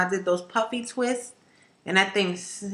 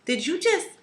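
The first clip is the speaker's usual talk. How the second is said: lightly voiced daughter, higher; a hint of an indignant child; daughter's voice; 5 semitones higher than usual. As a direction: daughter protesting to her mom. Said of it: "She was like".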